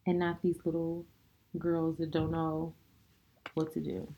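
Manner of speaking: low, sultry and soft; husky seductive murmur. Acted. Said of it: "Talking so low".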